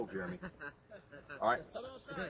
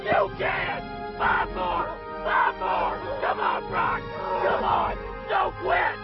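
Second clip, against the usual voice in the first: screaming coach; 12 semitones higher, slower than usual. Acted. Coach screaming player through crawl.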